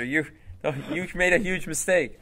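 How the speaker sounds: hammed-up jeering voice of the flashing lights; mock taunting. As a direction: tease yourself like a mocking chorus. Imagined taunting voice of car lights.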